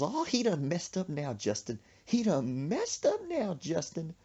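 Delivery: high, drawn-out outrage, acted; indignant mama. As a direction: stretch the threat out in a rising pitch.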